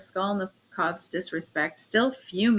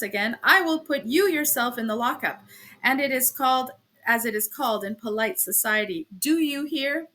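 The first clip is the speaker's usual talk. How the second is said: stern threat; 2 semitones higher than usual. Acted. Officer threatening the landlady.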